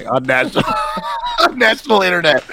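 laughing mid sentence. Real, not acted. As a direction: break up laughing. Joking about crying, laughing.

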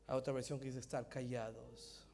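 near-whisper sermon, breathy and soft; hushed whisper preaching. Acted. Preacher showing God's whisper, hushed throughout. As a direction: preach as if telling a secret.

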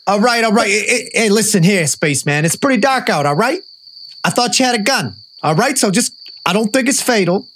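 cop voice. Acted. Cop talking to alien.

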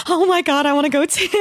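mock desperate excitement; excited plea. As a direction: friend retelling learning she got the invite too. Retelling excited plea to join.

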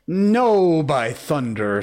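high, loud burst on the first word; defiant cry. A narrator's reading. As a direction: refuse outright, leading with a shout. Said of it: "Starkey cried".

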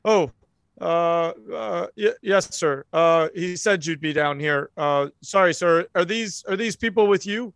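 halting, sheepish apology; deferential officer. Acted. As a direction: stammer respectfully to a superior. Officer realises he addresses special agent.

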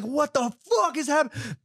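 high-pitched incredulous cry; hammed-up bewilderment. Boxer overwhelmed by her demands, high mock bewilderment. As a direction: wail it in mock disbelief. Acting his panicked bewilderment.

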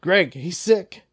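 lightly voiced, drawn-out verdict on Greg; mock commander. Teller voicing Dan Coates sizing up Greg, mock commander. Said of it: "like, Dan Coates, he's like".

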